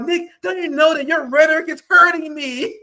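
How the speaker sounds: mock whiny crying. Critics whining to Nick that his words hurt, mock tearful whine. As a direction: fake tearful whimper, imitating. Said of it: "all the anti-Zionist Jews like".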